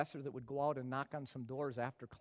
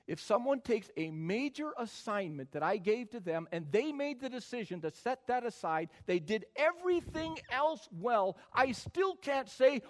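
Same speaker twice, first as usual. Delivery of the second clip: building from firm to a loud high cry; rising sermon intensity; 8 semitones higher, 8 dB louder than usual. Real, not acted. Preacher building louder to students. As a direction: preach it up to full force.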